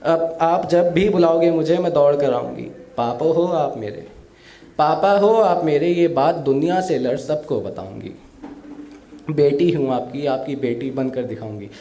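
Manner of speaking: emotional recital of a daughter's farewell poem. Acted. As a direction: recite it with feeling, like a stage poet. (भावुक कविता पाठ)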